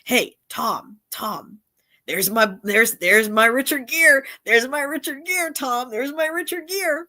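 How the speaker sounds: high, insistent mock excitement; gushing impression of a star-struck wife; imitating excited friend. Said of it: "you know, she's like".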